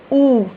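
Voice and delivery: "ऊ" held long and loud; long "oo" sound. Shown as a demonstration. Teacher repeats the sound for students, long "oo". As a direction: stretch "ऊ" into a firm "oo". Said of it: "with these two colons it becomes".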